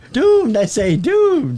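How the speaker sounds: slow, high, ominous doomed cry; slow ominous raspy drawl. Acted. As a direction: drag out doomed like a crazy prophet. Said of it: "That guy".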